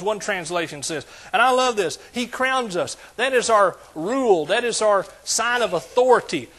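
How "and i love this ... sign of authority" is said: raised, emphatic preaching. Acted. Preacher declaring to the church that God crowns us. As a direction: drive each line home from the pulpit.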